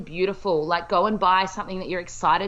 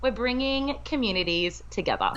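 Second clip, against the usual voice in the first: high breathy laugh to finish; giggling wrap-up; 6 semitones higher than usual. Real, not acted. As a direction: laugh at your own joke. Laughing at her own line.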